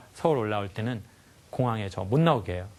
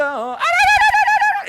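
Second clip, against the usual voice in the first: very high, loud tongue-trilled cry; imitated African ululation of joy; 11 dB louder, much slower than usual. Showing the sound villagers make, piercingly high trilled ululation. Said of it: "이런 애들도 소리를 내는 거예요".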